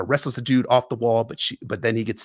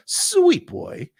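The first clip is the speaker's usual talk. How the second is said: put-on much higher, sing-song sweet boy; sly coaxing call; 4 dB louder than usual. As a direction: lure her over teasingly. Jaqen calls from the cart.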